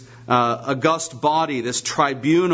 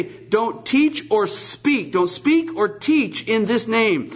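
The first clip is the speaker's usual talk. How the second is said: stern council orders; 4 semitones higher than usual. Retold or imitated. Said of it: "and they say".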